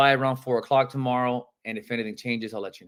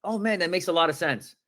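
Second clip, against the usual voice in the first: excited; 3 semitones higher than usual. Shown as a demonstration. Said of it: "If you don't sound excited with".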